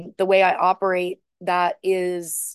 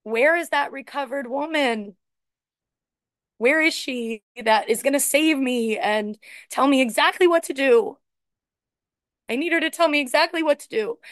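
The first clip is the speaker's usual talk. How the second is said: getting emotional; 3 semitones higher than usual. Real, not acted. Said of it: "I'm getting a little emotional".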